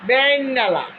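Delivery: বেইননালা said slowly as one drawn-out local word; Cumilla dialect word. Shown as a demonstration. Telling viewers the Cumilla word for morning, dialect demo. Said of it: "আমাদের দেশে দুইটা আঞ্চলিক ভাষা বলবো কুমিল্লা".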